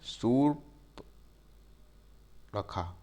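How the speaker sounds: सूप, then नखा, split slowly with a pause; syllable by syllable. Shown as a demonstration. Teacher to class, splitting the name slowly. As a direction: spell out सूप ... नखा in two slow parts. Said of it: "सूप नखा को जो है इस तरीके से लिखा जाता है".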